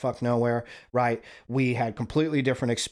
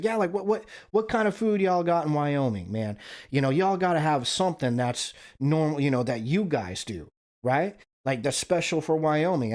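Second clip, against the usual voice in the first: lightly voiced Southern buddy, pitched up; a higher-pitched, casual retelling of a friend's question; imitating curious friend; 4 semitones higher than usual. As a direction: quote your friend's eager questioning in a higher voice.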